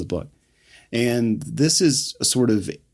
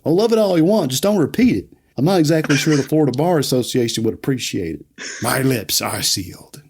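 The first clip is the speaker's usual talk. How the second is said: Kevin's warning; 3 semitones higher than usual. Retold or imitated. Kevin asking Milton to keep it secret, lightly voiced. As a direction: play Kevin lightly, slowing on the last line. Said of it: "Kevin gives it up".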